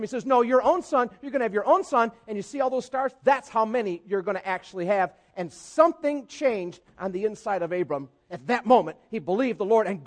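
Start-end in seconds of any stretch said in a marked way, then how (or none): 0.2-5.1 God correcting. Retold or imitated. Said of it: "corrects him".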